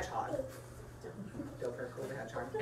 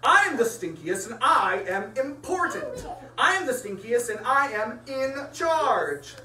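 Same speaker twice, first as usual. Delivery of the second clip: pompous bug; 3 semitones higher, 4 dB louder than usual. Acted. Stink bug ranting about rules.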